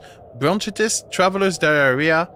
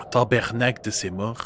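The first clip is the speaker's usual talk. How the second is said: half-hearted Quebec French swearing; weak Quebec accent; 4 semitones lower than usual. Acted. Streamer failing at Quebec swearing, in a weak Quebec accent. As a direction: try a Quebec accent that doesn't quite land. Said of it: "I cannot do my Quebec accent anymore".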